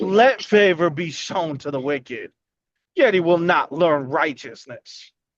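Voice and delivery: sarcastic reading. Showing how the verse should sound when read: sarcastic reading. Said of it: "That wasn't sarcastic sounding".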